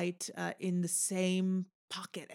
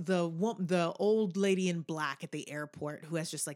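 usual speaking voice

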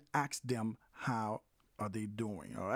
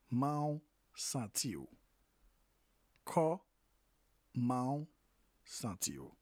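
slow Creole demo; slower than usual. Shown as a demonstration. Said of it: "How are you feeling in Creole?".

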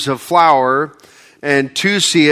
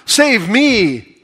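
slow, earnest higher-pitched plea; pleading prayer; 5 semitones higher, slower than usual. Retold or imitated. Believer crying out to God for rescue, earnest plea. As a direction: beg God for help, slowly. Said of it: "cried out to God and said".

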